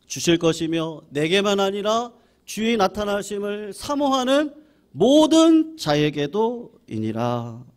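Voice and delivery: slow, measured recitation of the verse; slow solemn Bible reading; scripture reading. Acted. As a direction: read it solemnly, line by line. Reads scripture aloud with congregation.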